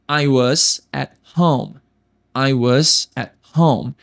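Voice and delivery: at home com o T quase sem som; at home ligado. Shown as a demonstration. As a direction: quase engula o T de at. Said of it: "Esse T quase não tem som". (at home, T quase mudo)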